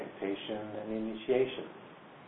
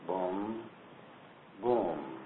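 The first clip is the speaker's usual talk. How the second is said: heartbeat boom; 5 dB quieter than usual. Shown as a demonstration. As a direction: mimic a slow heartbeat. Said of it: "heart to beat like".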